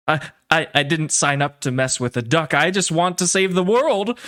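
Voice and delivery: rattled stammer, pitch climbing; shaken Vince. Acted. Vince backing away from the duck, shaken stammer. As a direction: stammer the start, then rise to a high plea. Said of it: "Vince is shook".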